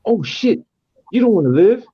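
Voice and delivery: be blown away by the verse; impressed exclaim. Retold or imitated.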